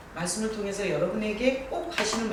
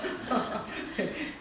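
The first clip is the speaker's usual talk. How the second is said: breathy laugh; 5 dB quieter than usual. Real, not acted. Laughs again at joke.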